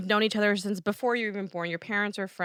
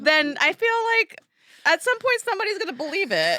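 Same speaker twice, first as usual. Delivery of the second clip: put-on Southern accent; 11 semitones higher, 4 dB louder than usual. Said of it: "Back to my Jersey accent".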